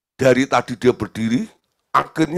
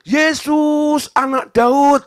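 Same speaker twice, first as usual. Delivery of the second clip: high-pitched shouted call; loud, urgent hailing; 13 semitones higher, 4 dB louder, much slower than usual. Acted. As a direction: cry out to get someone's attention. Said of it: "Waktu dipanggil-panggil".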